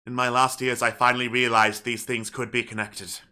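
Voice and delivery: solemn, measured letter reading with long pauses; father's farewell letter. Acted. Reads a father's letter aloud in character.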